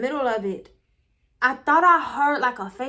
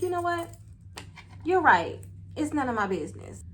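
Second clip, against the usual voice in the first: softer, suddenly agreeable imitation; changed voice; 4 semitones higher, 4 dB quieter than usual. Man suddenly dropping the argument, in a changed, softened voice. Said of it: "like, this change in his voice".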